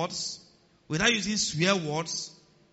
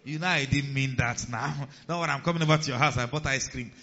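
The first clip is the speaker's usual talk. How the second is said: sweet-talking; 5 semitones lower than usual. Retold or imitated. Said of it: "you now call".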